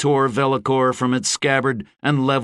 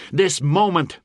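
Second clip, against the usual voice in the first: high proclaiming voice; rousing oratory; 8 semitones higher than usual. A narrator's reading. Gabriel to the bands before battle, proclaiming. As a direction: ring it out to the army.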